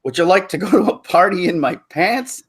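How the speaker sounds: awkward Steve Carell. Retold or imitated. Man asks woman to a party, awkwardly. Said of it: "Stephen Carell in his awkward way".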